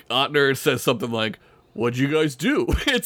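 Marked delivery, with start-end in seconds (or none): 1.7-2.7 mock suspicious, rising insinuation; lightly acted prying question; shady. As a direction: ask it like you suspect something. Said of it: "so fucking shady".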